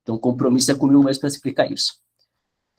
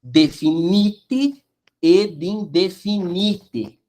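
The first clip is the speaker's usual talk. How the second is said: slow modelled reading; 3 semitones higher, much slower than usual. Shown as a demonstration. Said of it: "Então, sostantivi".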